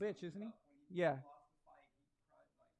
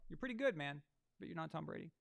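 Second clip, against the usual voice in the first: softened. Real, not acted. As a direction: back down and soften it.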